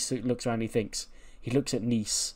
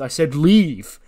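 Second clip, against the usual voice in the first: loud, higher-pitched outburst; angry order; 4 semitones higher, 9 dB louder, much slower than usual. Acted. Dom shoves Ray out of his ring, angry shout. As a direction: order him out, voice jumping up.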